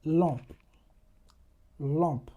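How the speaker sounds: Lampe with nasal vowel, no m; French nasal example. Shown as a demonstration. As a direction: model lampe, falling. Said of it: "You have letters".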